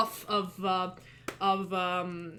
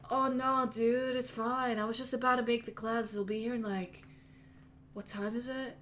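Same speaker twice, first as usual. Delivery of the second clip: lightly voiced easygoing stoner dude, a bit higher; a hint of a chill, spaced-out gym owner; mellow stoner; 3 semitones higher than usual.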